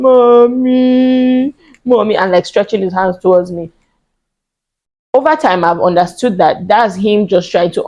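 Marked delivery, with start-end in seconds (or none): 0.0-2.2 put-on high, louder little-boy call of mommy; a son crying out to his mother while kneeling; child pleading.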